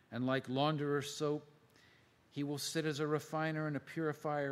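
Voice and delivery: measured, emphatic Bible reading; scripture reading. Acted. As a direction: read the prophet aloud, pausing between phrases. Reads scripture aloud to listeners.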